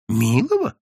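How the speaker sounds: протяжно, громко и очень высоко; преувеличенно возмутись ради лести; подлизываясь. A narrator's reading. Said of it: "подлизывался Евсей". (подобострастный высокий возглас)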